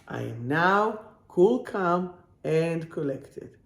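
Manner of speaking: measured, word-by-word affirmation; slow, deliberate repeat. Real, not acted. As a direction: spell out each phrase slowly, with pauses. Affirmation repeated slowly for emphasis.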